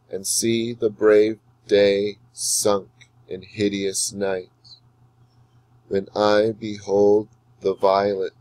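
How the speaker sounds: slow, measured reading with long pauses between lines; sonnet recital. Shown as a demonstration. Teacher reading Shakespeare aloud for students to follow the meter. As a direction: read the sonnet slowly so the iambs can be heard. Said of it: "Follow along carefully as I read Shakespeare's Sonnet twelve aloud".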